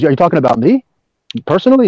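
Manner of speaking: asking in surprise, last word rising high; quoting Bernstein, incredulous rise; incredulous question. Retold or imitated. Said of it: "Bernstein goes".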